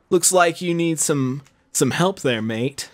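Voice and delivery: lightly attempted London accent; bad Londoner accent. A hero walking in to offer help, in a bad Londoner accent. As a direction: have a poor go at a Londoner accent. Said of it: "That was the worst, like, Londoner accent".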